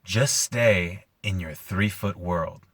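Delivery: slow, lazy rasp, lightly put on; unhurried, lazily raspy delivery. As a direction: imitate a laid-back smoker drawling advice. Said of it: "in, like, this lazy, raspy voice".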